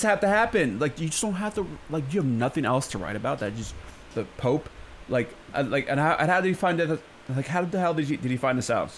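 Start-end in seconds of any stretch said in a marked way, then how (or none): none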